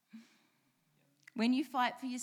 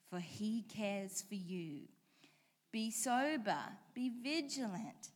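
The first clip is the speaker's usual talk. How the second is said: measured, deliberate Bible reading; unhurried pulpit reading of scripture. Acted. Pastor reads scripture aloud.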